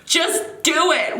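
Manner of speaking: mock yell, high and drawn out; imitated yelling. Vlogger imitating viewers urging them on, mild mock yell. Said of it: "yelling at me through the freaking phone".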